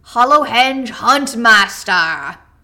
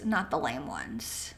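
ordinary delivery

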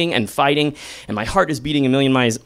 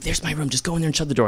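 quiet; 5 dB quieter, much faster than usual. Retold or imitated. Hushing so roommates don't wake.

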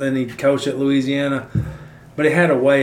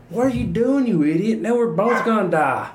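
much higher mock frog, outraged; 7 semitones higher than usual. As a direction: pitch it way up like a panicked frog. Frog yells at scorpion.

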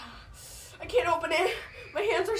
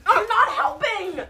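laughing; 7 semitones higher, 5 dB louder, slower than usual. Real, not acted. Laughing refusal.

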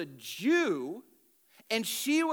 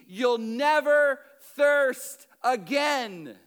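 louder, raised preaching voice; fervent proclamation; 4 semitones higher, 5 dB louder than usual. Acted. Jesus declaring living water to the woman, fervent and loud. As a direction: proclaim it, slowing on the promise.

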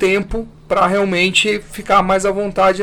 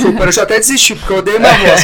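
laughing; 6 dB louder, faster than usual. Real, not acted. Laughing about hating own voice.

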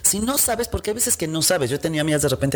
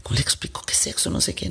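hushed, unvoiced inner panic; panicked whisper; 4 dB quieter than usual. Father whispering in panic about his son's question. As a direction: whisper it like a cornered dad.

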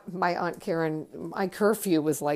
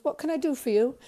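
impatient manager; 8 semitones higher, faster than usual. Retold or imitated. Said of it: "Looked pretty angry".

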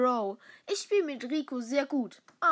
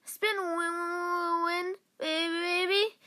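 character impression; 5 semitones higher, slower than usual. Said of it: "ihn so nachzumachen".

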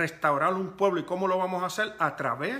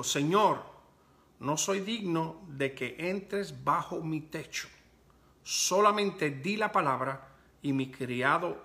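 slow, deliberate gospel reading; scripture reading. Real, not acted. Preacher reads the centurion's story to the congregation, deliberate scripture reading. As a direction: read the passage aloud in measured, weighted phrases.

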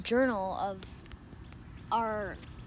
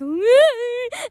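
high mock wail; short, high pained squeal, acted; imitated child's wail; 11 semitones higher, 4 dB louder than usual. Child showing dad a stapled finger, mock wail.

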